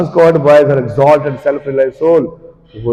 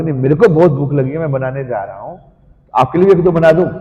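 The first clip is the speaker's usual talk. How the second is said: easy, offhand offering; casual offer; 2 semitones higher, faster than usual. Acted. Devotee tactfully offering food as his own hunger, casual. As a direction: offer it as if cooking for yourself anyway. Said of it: "अगर आप बोलोगे".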